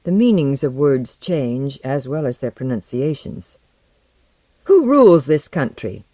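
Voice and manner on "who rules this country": loud, urgent shout; shouted question. A narrator's reading. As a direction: shout it in alarm. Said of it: "Barry shouted".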